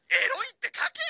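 high, laughing shout; excited outburst. Real, not acted. Voice actor shouts at viewer comments, high and excited. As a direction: yell at the chat in fun.

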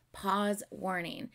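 slow, spaced-out warning; deliberate announcement. Real, not acted. Reactor warning viewers about pausing, slow deliberate announcement. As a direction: announce it slowly, word by word.

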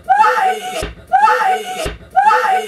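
frightened yell for father; crying shout for dad. Real, not acted. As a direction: scream for help. Wife calling out for father.

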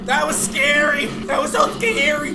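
high, startled relief after a scare; rattled exclamation. Real, not acted. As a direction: exclaim it, still rattled from the fright. Just after jump scare.

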